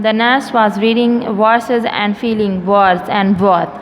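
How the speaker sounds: measured, careful classroom poem reading; teacher reciting a poem evenly for students; poem read aloud. Shown as a demonstration. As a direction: read the verse out word by word.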